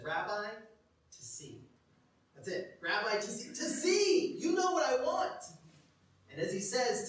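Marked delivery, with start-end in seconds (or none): 2.8-5.4 high, loud, urgent burst; blurted out. Acted. Blind man answers Jesus instantly, blurted out. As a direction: blurt it, building to a high cry. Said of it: "he blurts it out".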